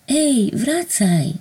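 slow, high call into empty room. A narrator's reading. Narrator calling vanished angel back. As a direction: call him back, drawn out. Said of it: "zawołałam w przestrzeń".

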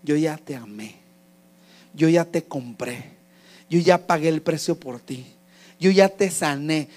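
low, measured reassurance with pauses; a hint of a solemn, tender God; lightly voiced God. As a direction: speak gently as God, low and deliberate. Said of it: "Pero Dios dice".

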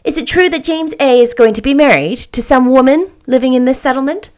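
chirpy little lady. Acted. Little lady chattering to Anne about James, chirpy. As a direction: chirp it out like a busy little bird.

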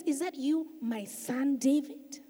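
a touch of weeping as he calls out; lifting his voice. Acted. Saul calling out to David, mild tearful lift. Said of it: "Saul lifts up his voice and he actually weeps".

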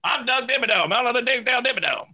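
high, fast hammed-up tycoon catchphrase; Doug Dimmadome voice. Quoting the cartoon tycoon to friends, high hammed-up voice. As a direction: belt it out like a cartoon showman.

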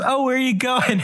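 lightly imitated curious woman; Claire Danes. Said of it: "and she goes".

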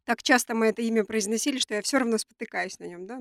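nasal voice from a cold; talking with a blocked nose; stuffy nose. Real, not acted. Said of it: "я сегодня немного гнусавлю ввиду своей простуды".

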